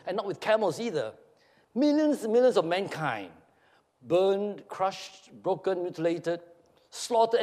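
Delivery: slow, heavy list of human suffering; impassioned Satan figure. Acted. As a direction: indict God, word by weighty word. Reads Nichols's speech on suffering.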